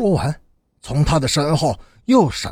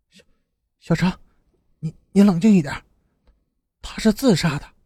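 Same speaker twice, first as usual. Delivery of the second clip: fearful voice, trembling, stammering, halting and broken; 4 semitones higher than usual. A woman backing away in fear answers Xiao Zhang, in a trembling frightened voice. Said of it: "声音颤抖的说".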